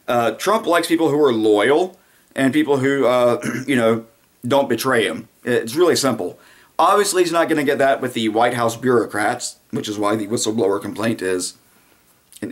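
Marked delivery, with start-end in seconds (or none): none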